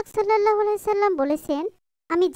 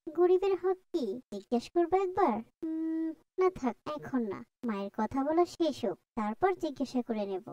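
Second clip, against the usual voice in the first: hushed, soft thinking aloud; quiet aside; 7 dB quieter than usual. Acted. Daughter musing softly while mother talks on phone, hushed. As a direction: murmur it to yourself so mother won't hear. Child whispering to herself aside.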